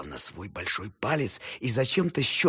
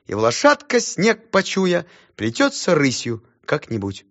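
high, loud, slow schoolboy declaiming; brisk recitation; 6 semitones higher, 5 dB louder, slower than usual. Acted. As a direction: recite the poem boldly. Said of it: "Я бодро завёл".

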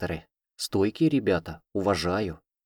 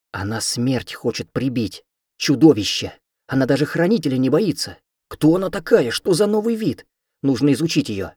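excited crowd exclamations; 5 semitones higher, 5 dB louder than usual. A narrator's reading.

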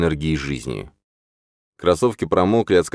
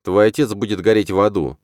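usual speaking voice

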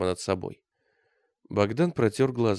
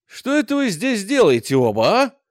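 louder, higher, gruff challenge; stern commander; 10 semitones higher, 8 dB louder than usual. A narrator's reading. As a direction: catch them in the act. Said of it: "послышался суровый голос". (суровый окрик командира)

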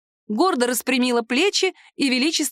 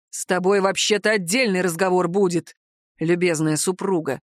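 hard; 2 semitones lower than usual. Acted. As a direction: drop the pitch and say it sternly. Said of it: "вдруг жёстко сообщил Гадор".

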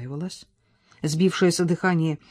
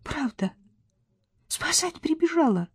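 moved; 10 semitones higher, 5 dB quieter than usual. Acted. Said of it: "дед растроганно ответил".

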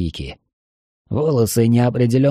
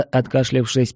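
ordinary delivery, nothing marked

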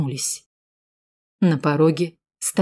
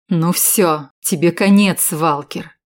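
mild shout through teeth; 3 dB louder, slower than usual. Acted. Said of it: "закричал сквозь зубы".

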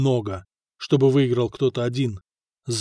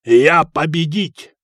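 loud, slow victory declaration; exultant, booming announcement; triumphant; 6 dB louder, slower than usual. A narrator's reading. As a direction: proclaim the win, drawn out. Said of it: "торжествующе сказал Хакон".

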